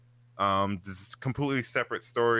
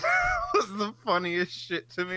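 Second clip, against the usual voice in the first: laughing; 11 semitones higher than usual. Real, not acted. Laughing after the joke.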